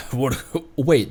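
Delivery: normal talking voice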